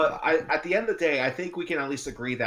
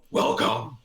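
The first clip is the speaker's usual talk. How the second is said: whispered; 2 semitones lower, 3 dB louder than usual. Retold or imitated. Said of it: "he just goes".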